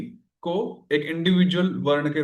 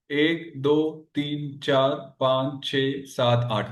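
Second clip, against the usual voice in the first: counting out; 2 semitones lower, much slower than usual. Shown as a demonstration. Teacher counts the syllables aloud.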